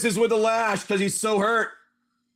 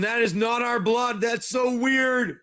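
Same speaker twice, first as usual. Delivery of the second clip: higher, shouted startled cry; shocked exclamation; 4 semitones higher than usual. Acted. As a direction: blurt it out in disbelief, stretching the last words. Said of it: "Xavier going".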